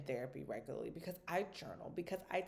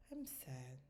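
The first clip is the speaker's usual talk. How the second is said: put-on low, soft child voice; small sad child; 5 semitones lower, 12 dB quieter than usual. Daughter telling mom she's sad, soft and low. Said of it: "she's like".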